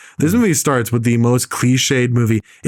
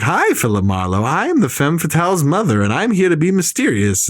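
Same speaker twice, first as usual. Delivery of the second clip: lightly hammed-up movie introduction; a hint of a mysterious mother figure; mock movie character; 4 semitones higher than usual. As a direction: mimic her entrance line with exaggerated, swooping intonation. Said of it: "she's like".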